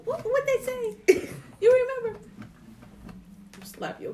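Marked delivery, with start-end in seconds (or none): 0.0-2.2 imitating mom. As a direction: drag it out like a forgetful mom.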